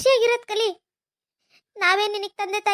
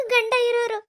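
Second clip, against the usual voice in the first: tearful; 2 semitones higher than usual. Acted. Wife lamenting her fate, tearful. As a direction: voice catching with tears.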